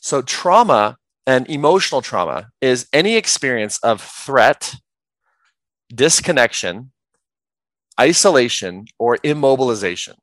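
measured, with long pauses between key terms; slow, deliberate definition. Real, not acted. Coach reciting a wordy definition slowly for listeners. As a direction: set out each term separately. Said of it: "do my best to say it slowly".

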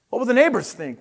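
high-pitched storybook fretting; lightly acted motherly worry; worried mother. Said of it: "worried his mother".

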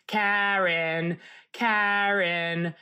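drawn-out imitation of a man calling a name; restrained retold yell, long vowels; mock yell. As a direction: stretch the name out like a heckler. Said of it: "the Italian guy yells at me".

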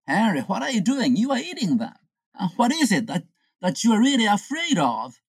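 high-pitched, indignant questioning; incredulous confrontation. Acted. Prankster catching Henry eating them, incredulous.

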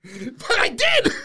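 slow, high-pitched protest; emphatic shout. Real, not acted. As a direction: stretch it out, protesting. Admitting he nearly got scammed.

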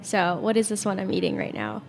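talking while crunching a snack; chewing mid-sentence, crunching audibly. Real, not acted. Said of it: "if you could hear me crunching".

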